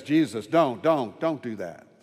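a hint of Martha pleading; lightly voiced pleading sister; skeptical Martha. Martha begs Jesus not to open the tomb, lightly pleading. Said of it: "Martha herself is skeptical and says".

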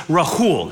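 "Rahul" with a simple breathed h. Shown as a demonstration. Speaker correcting the audience on his name, simple H. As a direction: say "Rahul" with an easy h between the vowels. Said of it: "simple H".

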